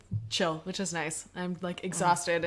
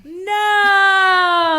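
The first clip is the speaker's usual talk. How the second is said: loud high gasp of No; hammed-up horrified cry; mock shocked; 10 semitones higher, 13 dB louder than usual.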